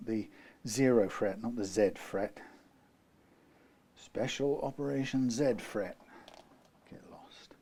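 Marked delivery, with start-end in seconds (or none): 4.0-6.0 a light, joking military announcement, pitched a bit higher; mock Russian military officer. Guitar repairer teasing himself about saying Z: mock Russian military voice. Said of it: "I sound like a Russian military personnel". 6.9-7.5 breathy whispered dismissal, almost silent; whispered get lost. Pretend. Guitar repairer brushing off his own Russian joke: whispered aside.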